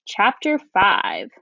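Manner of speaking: slow storybook announcement; read-aloud voice. Shown as a demonstration. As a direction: announce the chapter slowly for the class. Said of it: "listen how I look out for those clues".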